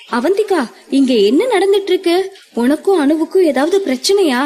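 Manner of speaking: anxious asking. Acted. Madhu asks Avanthika about the fight, anxious and fast. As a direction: rush the worried questions out. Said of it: "பதட்டமாக கேட்கவும்".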